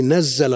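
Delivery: "نزل" as nazzala, with shadda on the z; doubled z. Shown as a demonstration. Teacher cites a verse as proof, "نزل" with doubled z. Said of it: "ما تجي بالتشديد؟".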